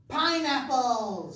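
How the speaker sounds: excited guess. Acted.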